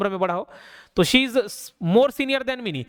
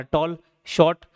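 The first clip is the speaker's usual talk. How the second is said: टॉल and शॉर्ट each as one unbroken beat; no pause within; 5 semitones lower, slower than usual. Shown as a demonstration. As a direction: say टॉल, then शॉर्ट, each in a single syllable. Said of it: "कहीं पे भी ठहराव नहीं आ रहा".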